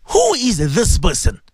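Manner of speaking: slow, weighty interrogation; solemn, drawn-out question; questioners in the grave. Acted. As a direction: ask it slowly and gravely, word by word. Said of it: "And they ask you".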